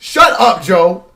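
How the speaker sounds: loud, high angry shout of "Shut up"; yelling shut up. Real, not acted. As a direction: bark "Shut up" at the commentator on TV. Yelling at commentator on screen.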